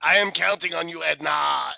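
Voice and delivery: loud, demanding mock order; imitating a commanding shout. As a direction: bark the order hammed-up. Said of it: "he goes".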